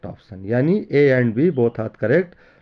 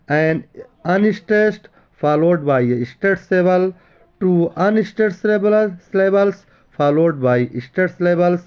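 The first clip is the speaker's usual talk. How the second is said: slow, deliberate reading of the options; slow quiz read-out; much slower than usual. Acted. Teacher reading options to students, slow and deliberate. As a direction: read each option aloud slowly for the class.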